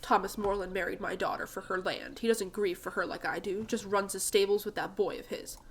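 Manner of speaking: a hint of grumpy old man; gruff old man. Jasper complains about his son-in-law, gruff. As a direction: grumble bitterly like an old farmer.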